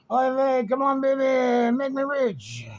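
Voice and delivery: high, loud frantic shouting; yelling. Retold or imitated. Bettors at the rail screaming for their horse. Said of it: "everybody's going nuts".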